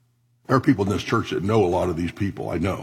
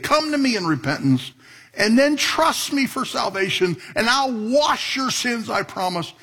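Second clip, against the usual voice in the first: Jesus' voice; 13 semitones higher than usual. Acted. Voicing Jesus' invitation.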